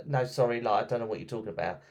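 a fast, casual American tourist brushing her off; quick dismissive American tourist voice; lightly done American accent. Retold or imitated. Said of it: "It's my best American accent".

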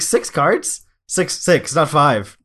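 rereading the card, astonished; can't believe the number; reading in disbelief. Retold or imitated. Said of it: "I was like".

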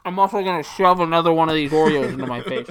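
loud, laughing through it. Real, not acted. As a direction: laugh as you say it. Laughing while announcing snack.

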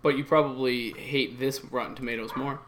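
far from mic. Real, not acted. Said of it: "Why does it sound like you're far away?".

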